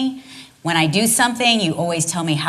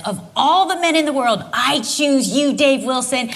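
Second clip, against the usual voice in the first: hammed-up adoring wife; 5 semitones higher than usual. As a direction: choose him like a bride would. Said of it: "she's cheering for me".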